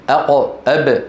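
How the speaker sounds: أق، أب cut short on a stopped consonant; effortful consonants. Shown as a demonstration. Teacher contrasts sounds needing effort with easy vowels, effortful stops. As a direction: stop hard on the q of أق and b of أب. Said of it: "هذه فيها كلفة".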